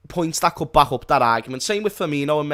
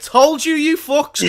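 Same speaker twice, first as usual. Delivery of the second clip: high, loud mocking told-you-so; a future Craig jeering at doubters; mock gloating Craig; 12 semitones higher, 7 dB louder, slower than usual. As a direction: gloat it in his face, cackling. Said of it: "Craig's like".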